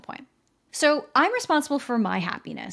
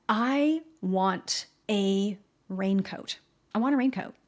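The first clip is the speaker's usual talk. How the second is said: plain, calm "I want a raincoat", said once and left; simple direct request. Shown as a demonstration. Wife calmly telling her husband what she wants. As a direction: state it simply, no hints. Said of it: "use language like".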